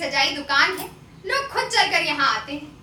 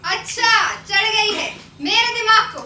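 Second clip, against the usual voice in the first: higher, sing-song mocking echo; 4 semitones higher than usual. Sundari mocks her friend's remark, half singing and taunting. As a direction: throw his words back at him in a taunting lilt.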